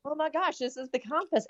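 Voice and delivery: imitating someone stunned, pitch jumping high; retold astonishment. Woman retelling the minister's shock at hearing the hospital's name, astonished. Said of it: "she about fell out of her chair".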